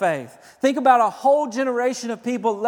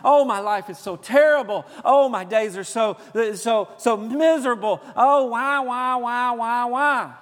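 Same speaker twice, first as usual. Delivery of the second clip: mock whining; 3 semitones higher, 5 dB louder than usual. Preacher mocks complaining churchgoers, whining louder. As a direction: moan self-pityingly about life. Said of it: "as you whine and as you complain".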